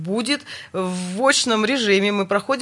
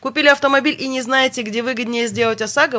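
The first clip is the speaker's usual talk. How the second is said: radio announcer; 2 semitones higher than usual. Acted. Host switches to sponsor read.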